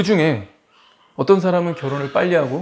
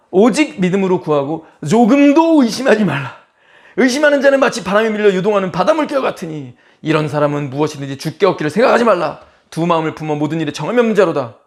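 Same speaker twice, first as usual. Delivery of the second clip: loud, raised-pitch scripture reading; forceful warning; 4 semitones higher, 6 dB louder than usual. Acted. Preacher reading a verse against doubt to the congregation, forceful. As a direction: declaim it as a stern decree. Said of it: "뉘앙스가 강력하죠".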